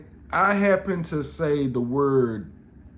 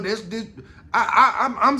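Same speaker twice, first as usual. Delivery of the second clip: laughing; 4 semitones higher, 4 dB louder, faster than usual. Real, not acted. Laughing at his own story.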